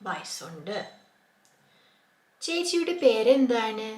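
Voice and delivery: voicing both speakers in a lively way; bright role-play of a greeting; lightly acted dialogue. Teacher acting out a greeting dialogue for learners.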